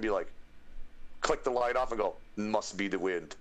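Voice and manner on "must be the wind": game guard with a put-on accent; dismissive sentry shrugging it off; accented video-game watchman; Skyrim guard. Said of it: "with the Skyrim guard".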